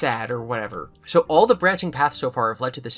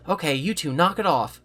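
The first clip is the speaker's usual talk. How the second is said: stern mom voice; 4 semitones higher, 3 dB louder than usual. Acted. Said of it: "that trademark mom voice".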